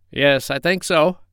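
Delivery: a fussy duck, unsure. Acted. The duck answers.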